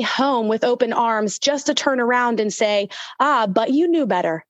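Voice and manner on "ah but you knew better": disappointed scolding. Retold or imitated. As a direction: sigh it out like a let-down parent. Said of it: "all disappointed, annoyed, irritated".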